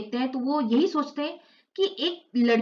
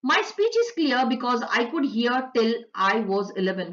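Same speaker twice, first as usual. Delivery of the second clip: slow, careful reading of the English text; slow textbook read-aloud; slow passage reading; much slower than usual. Acted. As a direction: read each word out slowly for the class. Slowly reads English passage aloud.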